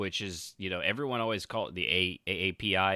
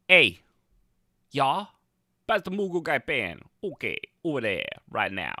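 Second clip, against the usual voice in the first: loud family dinner; 4 semitones higher, 7 dB louder than usual. Retold or imitated. Vlogger imagines the mixed family's Thanksgiving, loud calling out. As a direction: shout across the dinner table, higher and louder.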